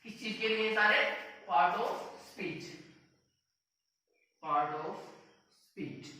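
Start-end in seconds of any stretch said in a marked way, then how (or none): 1.5-6.1 drawn-out, word by word; fading slow dictation. Shown as a demonstration. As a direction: say it slowly so they can write. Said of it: "speech है".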